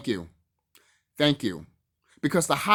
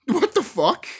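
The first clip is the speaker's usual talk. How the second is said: loud, high-pitched outraged surprise; mock stunned outburst; acted disbelief; 13 semitones higher, 6 dB louder, slower than usual. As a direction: blurt it out like a cheated viewer. Acts out reaction to cliffhanger ending.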